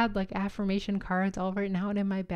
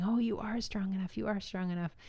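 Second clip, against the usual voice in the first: reassuring chorus; 2 semitones higher than usual. Retold or imitated. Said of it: "all saying".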